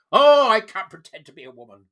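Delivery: loud whiny mock complaint. The vlogger voicing a complaining activist, loud and whiny. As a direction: wail it like a petty grievance.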